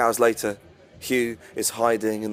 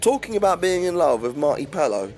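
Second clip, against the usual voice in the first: higher, rushing nervous man telling a creepy story; Hugh, spooked; 4 semitones higher than usual. Acted. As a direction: Hugh unnerved confiding to Nicole. Hugh's dialogue voiced higher.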